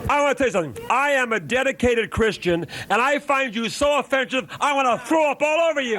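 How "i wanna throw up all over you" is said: shouting. Real, not acted. Host yells at guest.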